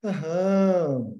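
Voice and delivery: "Aham" drawn out and falling, full agreement; agreeing aham. Shown as a demonstration. Analyst siding with the patient, emphatic agreeing "Aham". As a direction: nod along as if you totally agree. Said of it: "é diferente de quando você fala".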